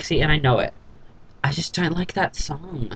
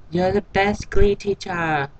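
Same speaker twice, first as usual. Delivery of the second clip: heartfelt; 5 semitones higher, slower than usual. Retold or imitated. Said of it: "like, heartfelt when she said it".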